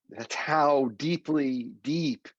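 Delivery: slow, mock Southern drawl; playful hint of a Southern accent. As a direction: stretch it out like a Southerner. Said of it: "my inner Southern accent is coming out for you".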